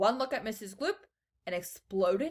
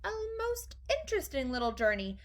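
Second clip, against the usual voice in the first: reassuring; 7 semitones higher than usual. A narrator's reading. Wonka tells the dear lady there's no danger, reassuring. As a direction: soothe a panicking parent.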